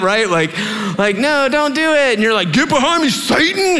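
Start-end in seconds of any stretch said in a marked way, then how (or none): 1.2-2.1 high, pleading caution; mock warning. Warns against using that reply. 2.5-3.8 high, hammed-up exclamation; mock argument retort. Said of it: "as a reply in an argument".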